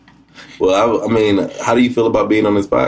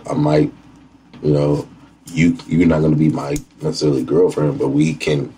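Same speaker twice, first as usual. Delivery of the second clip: demo of what to tell a date; 6 semitones lower than usual. Shown as a demonstration. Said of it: "You have to say".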